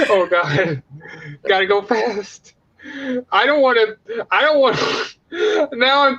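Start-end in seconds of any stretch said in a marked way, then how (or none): 1.5-2.5 mock whimper. Repeats the catchphrase slowly.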